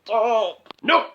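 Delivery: high, slow begging to stop; agonised plea; pleading disgust. Acted. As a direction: beg it to end. Begging scene to end.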